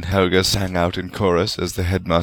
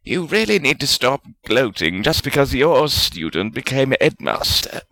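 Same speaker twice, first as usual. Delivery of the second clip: snapped; 6 semitones higher than usual. A narrator's reading. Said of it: "Salazar snapped".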